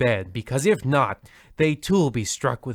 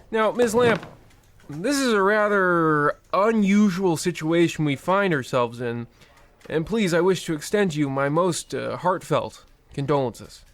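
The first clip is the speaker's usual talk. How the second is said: higher, brisk, callous banker; smug officious banker, pitched up; bank manager; 6 semitones higher than usual. Acted. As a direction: rattle off the cruelty like routine paperwork.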